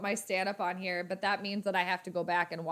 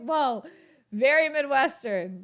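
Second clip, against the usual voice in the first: mock local Midwestern accent, a bit louder; 4 semitones higher, 6 dB louder than usual. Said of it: "It's like local people".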